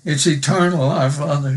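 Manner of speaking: earnest pulpit prayer; heartfelt spoken prayer. Acted. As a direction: pray it aloud for the congregation. Leads a prayer.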